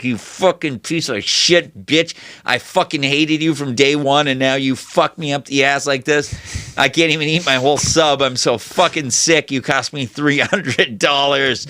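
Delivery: mock seething behind a forced smile; hatred through teeth. Salesman cursing the customer who cost him commission, acted seething through teeth. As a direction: leak the rage out through your teeth, held in. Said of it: "it's just leaking through your teeth".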